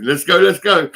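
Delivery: shouted high, pumped-up urging; mock rally cry. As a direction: hurry yourself along like a driver on a mission. Urging himself on while driving.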